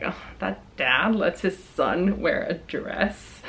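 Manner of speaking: slow, soft sneering mutter; mock disgust. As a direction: imitate a judgmental customer, disapproving. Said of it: "he kinda like".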